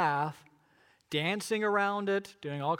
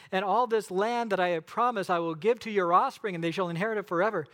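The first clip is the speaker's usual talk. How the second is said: scripture reading. Acted. Pastor reads Exodus aloud.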